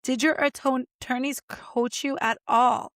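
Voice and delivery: mock disbelief at her client; exasperated girl. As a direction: plead with her like a friend gone wild. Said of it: "with my hands over my face like".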